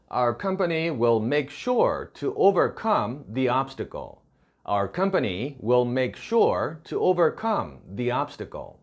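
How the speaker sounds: slow, careful English read-aloud; slow model reading. Shown as a demonstration. Teacher reads the model sentence to students, slow and clear. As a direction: read it slowly so learners can follow.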